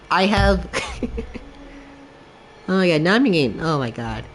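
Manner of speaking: fighting back tears while talking; choked-up, emotional rambling; getting teary-eyed. Real, not acted. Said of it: "Now I'm starting to get teary-eyed".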